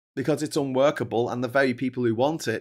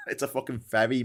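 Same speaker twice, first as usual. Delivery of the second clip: laughing. Real, not acted. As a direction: laugh it out in disbelief. Laughing at the boat.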